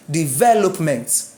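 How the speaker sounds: "Development" slowly, stress on ve. Shown as a demonstration. Teacher shows stress stays after adding ment, "Development" stressed on ve. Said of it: "the stress remains on that syllable".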